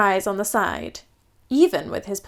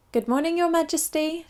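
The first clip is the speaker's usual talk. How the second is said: high, bright cheerful greeting; chirping maid; 6 semitones higher, 3 dB quieter than usual. Acted. Maid greeting the Queen at breakfast. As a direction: chirp it like a sunny morning. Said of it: "she chirped".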